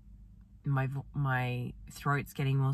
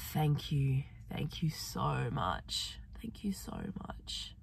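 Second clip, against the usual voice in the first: soft, breathy thanks fading to a near-whisper; tender gratitude; 4 dB quieter than usual. Real, not acted. Speaker thanking the earth after resting on it, tender and hushed. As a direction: give thanks slowly and tenderly, ever softer.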